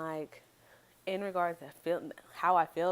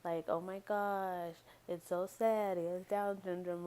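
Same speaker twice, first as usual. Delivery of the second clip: mock pity; 3 semitones higher, slower than usual. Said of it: "I don't want anybody's sympathy, like".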